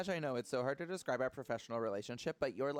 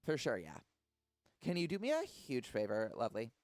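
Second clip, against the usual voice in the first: put-on Valley Girl voice; 2 semitones higher, 3 dB louder than usual. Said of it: "Valley Girl effect".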